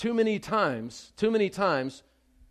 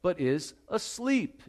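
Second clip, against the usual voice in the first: slow, deliberate proclamation; preaching Jesus's words; slower than usual. Acted. Preacher proclaiming Jesus's promise over the dead girl, slow. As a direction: stretch every word out for weight. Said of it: "Jesus says in verse fifty-two".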